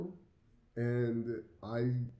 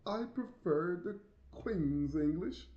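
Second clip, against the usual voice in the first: imitating a snooty lady; 7 semitones higher, much slower than usual. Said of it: "this lady was like".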